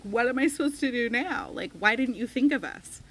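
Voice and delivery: retold tearful plea. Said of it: "in tears".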